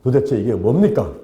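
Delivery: mildly aggrieved questions in prayer; complaining to God. Retold or imitated. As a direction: lightly act out a grumbling, exasperated prayer. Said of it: "막 불평을 하면서".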